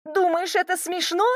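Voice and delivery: high, angry challenge; girl angrily challenging the man below; indignant. A narrator's reading. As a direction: demand it, furious. Heroine still snapping at him.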